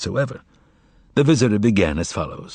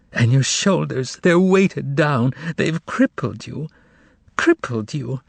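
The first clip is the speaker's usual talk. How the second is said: higher, slow tearful lament; crying lament; 4 semitones higher than usual. Acted. Margarita weeping over the master's head. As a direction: stretch the words out as if weeping. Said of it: "She was shaking with tears".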